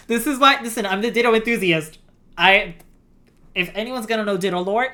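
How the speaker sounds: loud, fast proud brag; excited boasting. Real, not acted. Boasting as ditto enthusiast.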